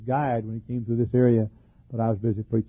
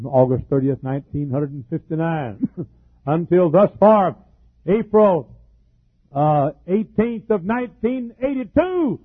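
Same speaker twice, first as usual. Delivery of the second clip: climbing higher and louder with a laugh, then slowing; fervent pulpit climax, much higher and louder, slowing at the end; building preacher's cry; 7 semitones higher, 5 dB louder, slower than usual. Real, not acted. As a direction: build the dates into a jubilant high cry.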